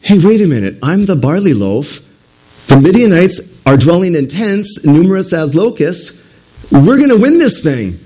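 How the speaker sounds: light up with sudden confidence; excited realization. Retold or imitated. Gideon realizes he is the barley loaf, excited. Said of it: "Gideon's like".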